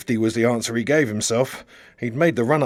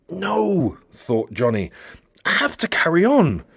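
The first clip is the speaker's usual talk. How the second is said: high, firm refusal to stop; defiant resolve; 6 semitones higher than usual. A narrator's reading. Johnny deciding to keep going, defiant. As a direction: dig in and commit.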